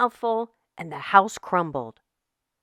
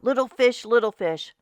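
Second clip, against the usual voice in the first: louder, teasing call at the door; menacing shark; 3 semitones higher, 4 dB louder than usual. Acted. Shark calls to the fish through the door, louder and teasing. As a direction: croon it like a shark who wants in. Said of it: "shark came knocking at the door".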